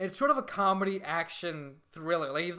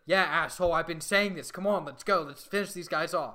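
louder, exasperated goading; impatient urging, acted; 2 semitones higher, 5 dB louder than usual. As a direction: play a god egging on his fighter. Acting out the god urging him on.

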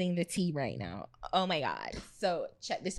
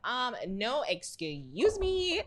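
snooty; 4 semitones higher, much slower than usual. Retold or imitated. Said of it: "Popcorn was just like".

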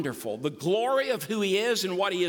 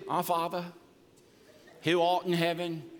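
mock reverent prayer voice; 4 semitones lower than usual. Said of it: "we need to put our reverent voice on".

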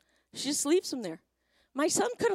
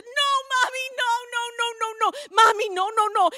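put-on high, loud wail of a protesting little boy; hammed-up, high-pitched child's protest; mock crying child; 9 semitones higher, 7 dB louder than usual. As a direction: imitate a distraught kid pleading with mom. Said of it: "he's crying and he's crying".

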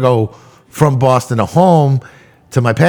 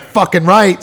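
sassy Brooklyn retort, pitched up; mock-tough Brooklyn comeback; full Brooklyn attitude; 5 semitones higher, slower than usual. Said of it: "with, like, a full attitude".

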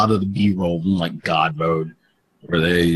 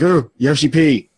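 whiny fan plea; 4 semitones higher than usual. Retold or imitated. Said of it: "one of the masses who, like".

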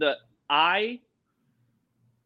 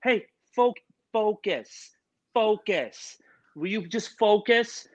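high-pitched imitated producer, insistent; mock exasperated plea; 6 semitones higher, slower than usual. Producers tell the chatty guest to concentrate, mock exasperation. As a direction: repeat it as if reining him in. Producers trying to rein him in.

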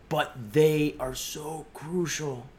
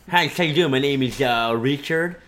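Richard character; 4 dB louder than usual. Acted. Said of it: "it's a character that I have".

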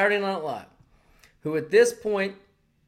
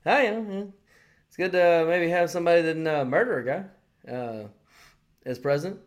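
imitating Norm Macdonald. Retelling Norm's remark on air, deadpan mock Norm. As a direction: toss the line off innocently. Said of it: "He's like".

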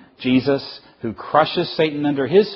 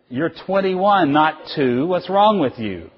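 higher, slow, incredulous scolding; mildly exasperated telling-off of a grown child; acted parental disbelief; 5 semitones higher, 3 dB louder, slower than usual.

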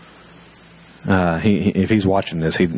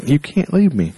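put-on higher, pleading kid brother; mock-tearful plea, pitched up; tearful whine; 5 semitones higher than usual. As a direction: imitate a little brother whining in protest. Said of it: "kind of whine in his voice".

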